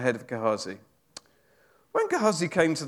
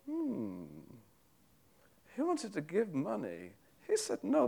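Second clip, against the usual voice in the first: high, hushed scheming inner voice; a lightly acted sly servant, thinking aloud; 6 semitones higher, 9 dB quieter than usual. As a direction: muse greedily to yourself, half under your breath. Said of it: "that's my attempt at drama".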